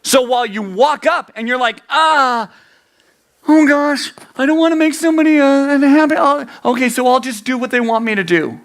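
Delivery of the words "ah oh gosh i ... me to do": higher-pitched, hurried fretting; anxious people-pleaser. Acted. Preacher voicing someone caving to others, anxious. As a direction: fret aloud, high and rushed.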